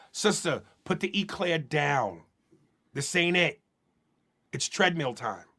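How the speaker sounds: gentle tough love. Acted. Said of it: "be real and go".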